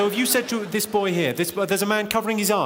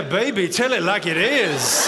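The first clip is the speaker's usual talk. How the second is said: mock sexy voice; 4 dB louder, slower than usual. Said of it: "Oh, yeah".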